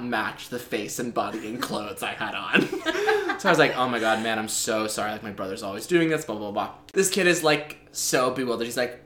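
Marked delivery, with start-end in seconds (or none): 3.8-6.7 casual put-on bro voice, slightly lowered; bizarre bro voice. Pretend twin apologizing for his brother, light bro voice. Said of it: "very bizarre bro voice".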